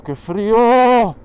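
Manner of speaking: high, slow cry of cold; freezing cry. Real, not acted. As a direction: yell out against the icy wind. Freezing rider cries out.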